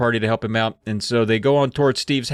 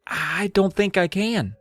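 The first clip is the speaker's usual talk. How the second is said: sighing; 7 semitones higher, slower than usual. Retold or imitated. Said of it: "she sighs and says".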